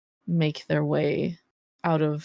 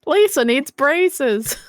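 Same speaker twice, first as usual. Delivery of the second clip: silly cartoon voice; 10 semitones higher, 9 dB louder than usual. Simpsons quote joke.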